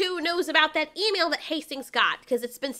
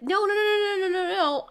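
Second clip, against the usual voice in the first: rapid string of pleading noes; hammed-up panic, words tumbling into each other; mock panicked pleading; 3 semitones higher than usual. Held-up man pleads with his attacker, in mock panic. Acted plea after a threat.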